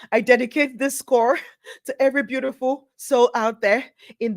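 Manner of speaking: hammed-up tearful thanks; mock acceptance speech.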